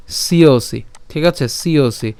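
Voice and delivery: "সিওসি" sounded si-o-si; joined sound demo. Shown as a demonstration. Teacher joins dental s and ya, "সিওসি" as si-o-si. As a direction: glide s into io in "সিওসি". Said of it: "দন্তস্বের সাথে ইয় যুক্ত করলে সিও".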